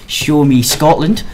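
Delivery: half-hearted, drawn-out Glaswegian imitation; rough stab at Glaswegian; poor Glaswegian accent. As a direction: imitate a Glaswegian woman, badly and slowly. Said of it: "my rather poor attempt at a Glaswegian accent".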